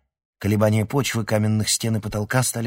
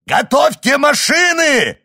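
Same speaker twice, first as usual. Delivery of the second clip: high, loud, slow panicked yell; frantic shout at the crew; 13 dB louder than usual. A narrator's reading. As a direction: bellow the order to flee. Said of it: "заорал он".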